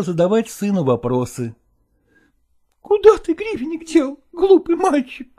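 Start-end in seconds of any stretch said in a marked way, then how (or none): 2.8-5.3 gentle mother. Acted. Mother asking her son where the coin went, high and gentle. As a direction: coax the boy kindly.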